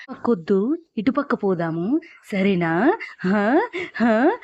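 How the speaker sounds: eerie slow wheedling ending in a wail; possessed woman coaxing her sister, slipping into a wail; crazed ranting. Retold or imitated. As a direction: sound unhinged, drawing out the last cries. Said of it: "పిచ్చి పిచ్చిగా అరుస్తా".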